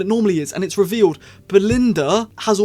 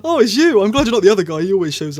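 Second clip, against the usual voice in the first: excited Ncuti quote; 3 semitones higher, 4 dB louder, faster than usual. Retold or imitated. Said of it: "Ncuti was like".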